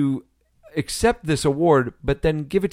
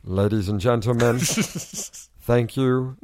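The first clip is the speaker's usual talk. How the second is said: Alan Rickman impression; 4 semitones lower, slower than usual. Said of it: "Here's Alan Rickman here".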